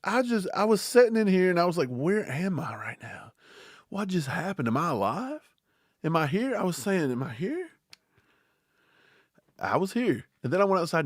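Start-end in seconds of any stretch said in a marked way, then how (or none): 1.9-6.6 soft, hushed and lost, whispering the first words; dazed hush. Retold or imitated. Streamer retells the blackout to his chat, in a dazed hush. Retelling confusion when power died. 7.1-7.7 softer, barely there; a stunned murmur to himself; dazed hush. Retold or imitated. Streamer repeats his blackout question to the chat, in a stunned murmur. Retelling confusion when power died.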